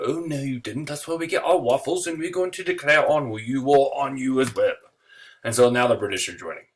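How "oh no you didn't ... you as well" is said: higher, mock-indignant "oh no you didn't"; sassy outrage. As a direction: play the British as offended divas. British outraged at Belgium invasion.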